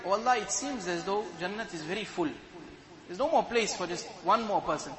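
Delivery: a sly, hushed ask. Acted. The man slyly hinting to Allah, hushed and sly. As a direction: slip it in slyly, under the breath. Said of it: "very slyly he'll say".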